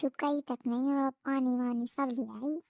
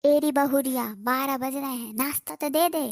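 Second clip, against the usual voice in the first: louder, a mother-in-law calling out in a huff; cranky saas demanding breakfast, louder; scolding yell; 5 dB louder than usual. Acted. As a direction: yell across the house for breakfast.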